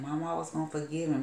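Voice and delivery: high, quick pleading cry, retold; imitated wailing. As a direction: mimic a grieving daughter begging her mama. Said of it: "you could hear the wailing in her voice".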